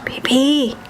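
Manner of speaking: whispering. Real, not acted. Whispering to sleeping baby.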